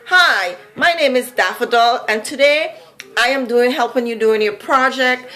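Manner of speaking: toned-down Vincy accent, even and measured; easier, milder accent. Shown as a demonstration. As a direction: ease off the Vincy accent for one-on-one. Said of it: "comes out a little bit easier".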